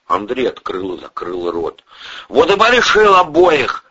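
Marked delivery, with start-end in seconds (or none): 2.3-3.8 high, loud and insistent; pressing accusation. A narrator's reading. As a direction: hammer the charge home. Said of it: "гнул своё".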